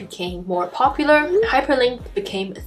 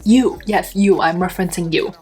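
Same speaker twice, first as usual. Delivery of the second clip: talking web page. Acted. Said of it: "web pages are real life creatures".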